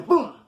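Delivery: sudden high boom; high burst for a surprise grab; spoken impact sound. Retold or imitated. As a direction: punch out a quick boom.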